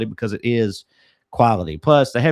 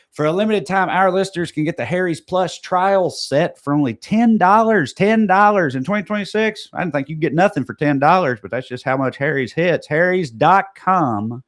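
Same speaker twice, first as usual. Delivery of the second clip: ad read; 3 semitones higher than usual. Acted. Podcast host pitching a promo code to listeners, punchy ad read. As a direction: sell the promo code like a radio spot. Host reads sponsor offer and URL.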